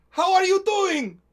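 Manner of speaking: high, loud, slow drawn-out alien greeting; sly, slow and high, like a winking blue alien; the speaker's Chiss voice. Retold or imitated. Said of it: "Nash's version of".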